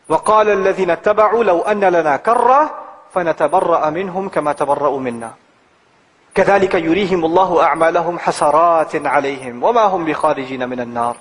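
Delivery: measured Arabic scripture recitation; Quran recitation. Acted. Preacher reciting the ayah to the congregation, measured recitation.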